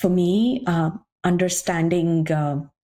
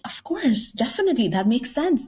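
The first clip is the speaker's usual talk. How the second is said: won-over agreement; 6 semitones higher than usual. Retold or imitated. Retold reaction of being won over.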